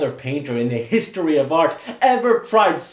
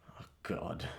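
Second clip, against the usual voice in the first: whispered; 21 dB quieter than usual. Acted. Hamlet's grief-stricken soliloquy.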